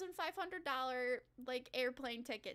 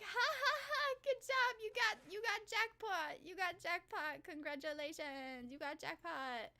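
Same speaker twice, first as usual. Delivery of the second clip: cheering Japanese lady; 4 semitones higher than usual. Retold or imitated. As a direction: imitate a delighted old lady cheering. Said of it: "this lady is so happy. She's cheering them on".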